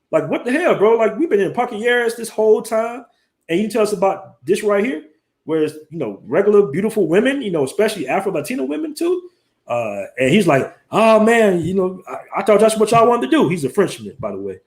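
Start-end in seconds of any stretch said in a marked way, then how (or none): 0.1-9.3 high, excited retold scolding of a friend; hammed-up what-the-hell disbelief; mock outrage. Friends ribbing Jay for hiding the club, high mock outrage. 10.9-13.5 put-on light French accent. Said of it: "he has that little accent".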